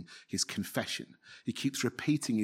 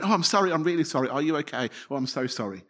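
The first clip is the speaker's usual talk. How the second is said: flustered apology; 3 semitones higher, faster than usual. Retold or imitated. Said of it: "you find yourself, don't you, going".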